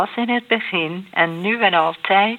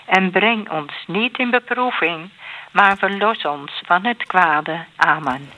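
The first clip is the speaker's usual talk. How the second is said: measured, even rosary cadence; prayer recitation. Real, not acted. Leader praying the Our Father in the rosary, measured prayer recitation. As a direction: recite it devoutly in set phrases.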